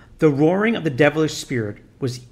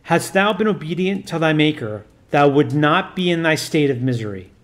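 a lightly voiced priest commanding solemnly; stern priest. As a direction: intone it like an exorcist giving orders. Priest rebukes the demon.

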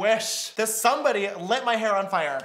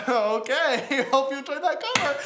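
imitating a cocky young performer, a bit louder; higher, amused mock-confident sign-off; mock self-satisfied; 4 semitones higher, 5 dB louder than usual. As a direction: sign off as if you killed it, laughing. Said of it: "I said it, like, as literally as if I killed it".

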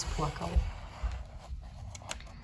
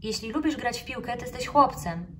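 know-it-all; 6 semitones higher, 4 dB louder than usual. Acted. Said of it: "Mówił jak ekspert".

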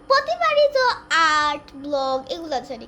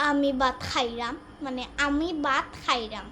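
Sylheti dialect; 4 semitones lower than usual. Shown as a demonstration. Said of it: "আমরা সিলেটি ভাষায় কয়".

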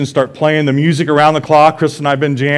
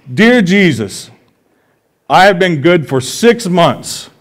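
put-on child writing letter; 4 semitones higher, slower than usual. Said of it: "Kaylee came up to me and says".

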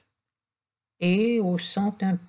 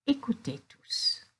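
softer, inviting story opening; storytelling hush; 5 dB quieter than usual. Acted. Grandmother starting a tale to gathered animals, softer. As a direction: draw the children in softly.

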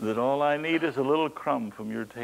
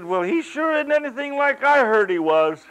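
indignant disbelief; 12 semitones higher, 8 dB louder than usual. Retold or imitated. Imagined indignant listener.

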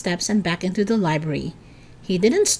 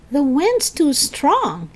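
higher and slow, a lightly acted gasp; 7 semitones higher, slower than usual. A narrator's reading. Eddie fighting the wind on the steps, gasping. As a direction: strain against the wind. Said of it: "Eddie gasped".

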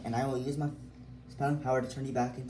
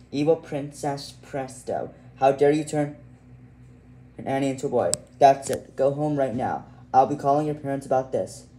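angry scolding; 5 dB louder than usual. Acted. Parent scolds the evil princess.

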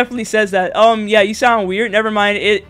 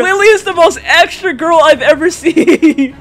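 high, amused exclamation breaking into laughter; laughing; 5 semitones higher, 4 dB louder than usual. Real, not acted. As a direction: crack up near the end. Amused at dramatic teammate.

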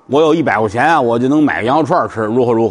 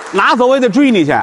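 laughing while talking; 2 semitones higher than usual. Real, not acted. Laughing at own joke.

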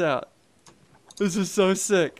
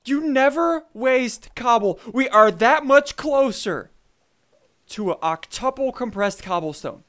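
stern lecture; 2 semitones higher than usual. Real, not acted. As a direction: lecture him word by word. Lecturing partner about wasted cobble.

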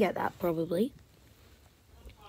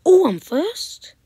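surprised whisper; 10 semitones higher, 10 dB louder, slower than usual. Real, not acted. Surprised at ranking.

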